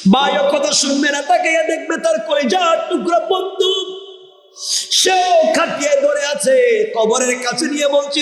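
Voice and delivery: high, ringing sermon chant; impassioned preaching. Acted. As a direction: carry the tale in a high preaching cry. Preacher's high-pitched narration.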